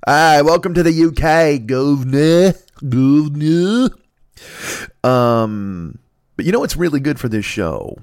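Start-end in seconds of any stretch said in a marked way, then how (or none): 0.1-3.9 slow, high, loud Cockney audition; a deliberately bad Cockney put-on; half-ass Cockney accent. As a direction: sell the Cockney welcome to an agent. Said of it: "half-ass Cockney guy".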